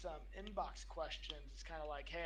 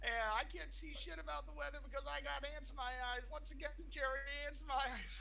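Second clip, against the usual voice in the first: higher, louder bumbling TV weatherman; goofy weatherman voice; 8 semitones higher, 4 dB louder than usual. Acted. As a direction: present the weather like a hapless TV host. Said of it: "you'll appreciate this one".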